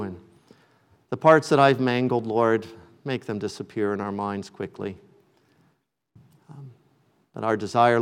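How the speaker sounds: low, subdued pastoral prayer; closing prayer. Real, not acted. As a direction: bring it down and pray humbly to God.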